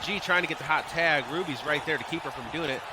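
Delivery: lively ringside commentary, calling each move; energetic live commentary of a wrestling match; play-by-play. Acted. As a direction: call the match like a wrestling announcer. Streamer calls wrestling match play-by-play.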